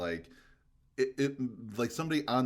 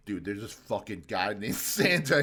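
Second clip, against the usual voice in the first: panicked Chucky; 6 semitones higher, 8 dB louder than usual. Retold or imitated. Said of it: "Chucky being like".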